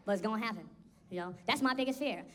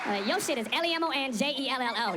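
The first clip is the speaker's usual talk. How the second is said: put-on proud kid spelling; 3 semitones higher, 3 dB louder than usual. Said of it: "that's one word".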